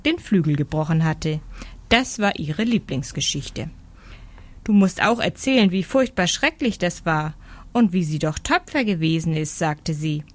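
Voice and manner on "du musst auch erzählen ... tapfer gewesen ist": eifrige kleine Meise. Acted.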